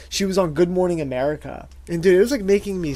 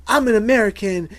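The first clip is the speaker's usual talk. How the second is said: higher-pitched mock indignation; indignant celebrity; 5 semitones higher than usual. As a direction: act out an affronted star pulling rank. Voicing the celebrity's indignant outburst.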